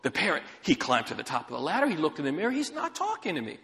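mildly exasperated customer, stumbling at the start; lightly acted frustrated complaint; retold grievance with a touch of frustration. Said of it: "Now she's frustrated".

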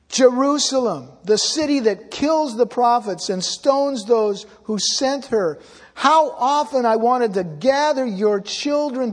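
preacher voicing Jesus lamenting over Jerusalem, a mournful cry. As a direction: cry out to Jerusalem like a grieving parent. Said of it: "he cries out".

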